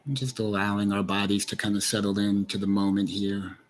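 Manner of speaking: unhurried guiding voice with long pauses; guided meditation. Acted. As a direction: lead listeners gently inward, leaving space between phrases.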